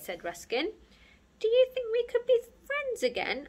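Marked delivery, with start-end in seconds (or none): 1.4-3.5 high, hopeful shy voice; hopeful question. A narrator's reading. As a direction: ask it timidly and hopefully. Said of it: "asked Sparky".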